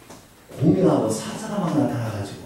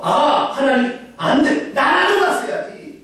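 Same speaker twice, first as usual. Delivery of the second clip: regretful believer; 12 semitones higher, 3 dB louder, slower than usual. Acted.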